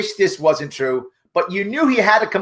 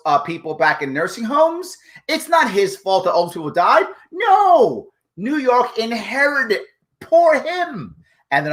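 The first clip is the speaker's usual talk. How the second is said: sarcastic. Pretend. Commentator mocking the governor's excuses for nursing homes, sarcastic. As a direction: gush with sarcastic pity and gratitude. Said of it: "I'm being sarcastic".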